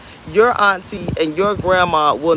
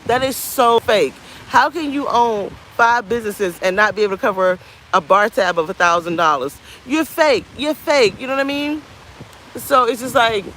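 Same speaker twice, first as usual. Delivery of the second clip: higher-pitched, incredulous venting; exasperated rant; 6 semitones higher than usual. Real, not acted. Venting about people living fake lives, exasperated. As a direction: call out the fakery, pitch riding high.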